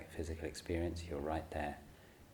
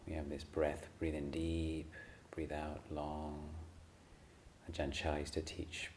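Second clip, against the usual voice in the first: softer, unhurried meditation guidance with long pauses; guided meditation; 5 dB quieter than usual. Acted. Teacher settling a group into sitting and breathing, calm meditation guidance. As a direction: ease them gently into stillness, leaving room between phrases.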